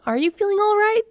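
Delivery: high, rising worried question; concerned. A narrator's reading. Coworker asks if friend feels ill, concerned. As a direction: check on an unwell friend. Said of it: "she said with concern".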